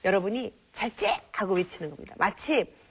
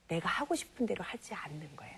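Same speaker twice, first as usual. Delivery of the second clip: soft emphasis; 7 dB quieter than usual. Shown as a demonstration. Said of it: "그런데 절제는 그때".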